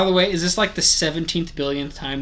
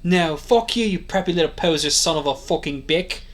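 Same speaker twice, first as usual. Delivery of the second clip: disgusted mutter. Acted. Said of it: "under his breast in a disgusted way".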